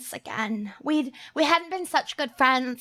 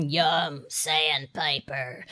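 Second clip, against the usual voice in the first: mock voice; 10 semitones lower, 5 dB quieter, slower than usual. Continues mock voice.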